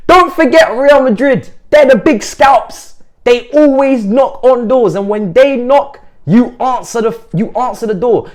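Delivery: loud, high, drawn-out proclamation; hyped warning. Real, not acted. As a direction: proclaim it slowly at full volume. Hyped warning to rival fans.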